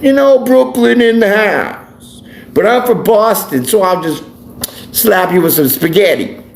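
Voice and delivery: a lightly done smug New Yorker; mock New Yorker. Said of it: "and be like".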